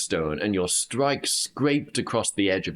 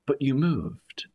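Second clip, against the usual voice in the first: Kel's voice; 7 semitones higher, slower than usual. Acted. Kel's surprised remark.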